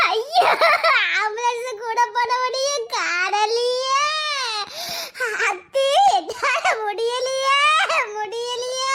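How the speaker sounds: slow, sobbing mock lament; hammed-up crying. Aunt acting out grief so the family believes her. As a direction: wail as if you cannot bear it. Staged wailing, crying heard.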